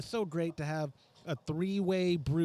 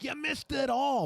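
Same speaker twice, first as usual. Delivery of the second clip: high, drawn-out call of you missed it all; playful shout; 11 semitones higher than usual. Real, not acted. Teasing a late viewer from Australia with a high, drawn-out call. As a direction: ham it up, stretching the words.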